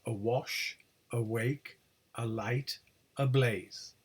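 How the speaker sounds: "awash, awake, alight, ablaze" each with light "a-" and stressed second syllable. Shown as a demonstration. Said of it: "always have stress on the second or later syllable".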